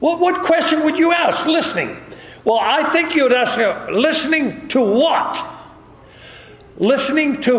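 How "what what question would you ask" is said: calling out the question, higher; raised challenge. Real, not acted. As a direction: throw the question at the room. Preacher calling to congregation.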